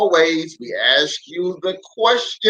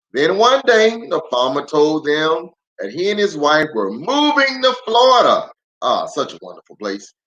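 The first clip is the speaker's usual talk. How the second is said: storybook read-aloud with lively swings; reading to children. Acted. Pastor reading a picture book aloud to kids online.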